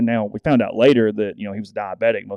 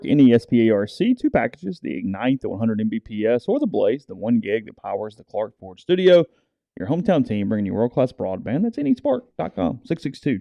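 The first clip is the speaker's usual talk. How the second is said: ad read. Acted. Host reading the broadband sponsor spot, lively ad voice. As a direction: pitch the internet deal to listeners.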